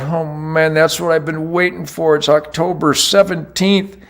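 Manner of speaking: a quiet sigh of regret about the missed buck; quiet disappointed retold thought. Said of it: "And I'm going".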